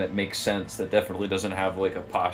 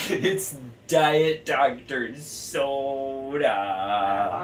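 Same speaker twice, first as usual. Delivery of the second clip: laughing; 3 semitones higher, much slower than usual. Pretend. Laughing at the silly name.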